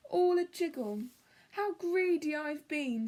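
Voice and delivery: giggling splutter. Acted. Bruce giggling to Cyril about his own greed. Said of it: "spluttered Bruce with a giggle".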